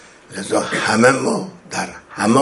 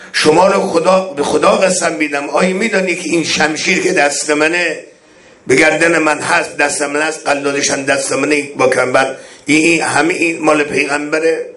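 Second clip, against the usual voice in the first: beseech them by God to recognize you; imploring imam; 5 semitones higher than usual. Acted. Voices Imam's oath-pleas.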